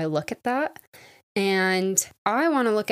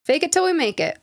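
higher, louder self-pep cheer; forced cheer; 7 semitones higher, 4 dB louder than usual. Real, not acted. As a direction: pump herself back up, brightly. Self-pep after self-put-down.

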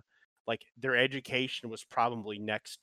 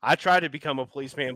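loud mock cop voice; mocking a dumb cop; 3 semitones higher, 8 dB louder, faster than usual. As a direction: bellow it like a dim cop. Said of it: "they're the kind of guy who".

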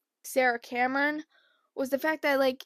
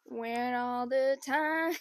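dreamy drawl; much slower than usual. Retold or imitated. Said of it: "I just kept going".

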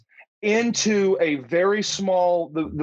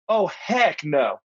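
firm refusal; slower than usual. Retold or imitated. Retold refusal to shave armpits.

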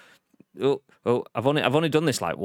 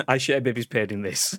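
ordinary delivery

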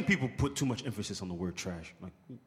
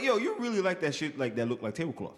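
amused retelling with a laugh in it; smiling; 6 semitones higher than usual. Retold or imitated. Re-enacting his comment on her outfit, smiling and amused. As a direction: tease it out through a smile. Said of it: "with the smile on my face is how I said it".

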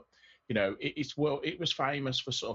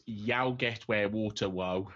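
slow, deliberate Black Country accent on "Yow get where water woe."; drawn-out Black Country delivery of "Yow get where water woe."; Black Country saying; 3 semitones lower, slower than usual. Shown as a demonstration. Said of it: "My favourite, um, saying from the Black Country is".

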